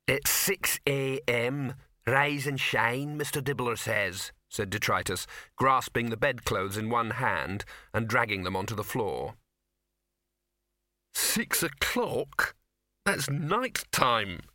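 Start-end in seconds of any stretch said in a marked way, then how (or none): 0.1-4.3 slow, plodding troll; lightly voiced ponderous troll; troll messenger. Troll wakes Victor with boss's orders, plodding. 11.1-14.4 slow, drawn-out, raised protest; groaning. A narrator's reading. Victor woken by the troll at dawn, groaning. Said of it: "groaned Victor".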